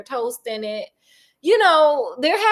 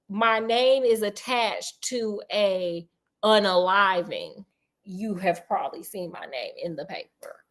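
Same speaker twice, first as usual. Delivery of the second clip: lightly voiced infamy, trailing softer and lower; infamous man; 4 semitones lower, 4 dB quieter than usual. Man known from the paper for infamy, grave understatement. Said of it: "More like".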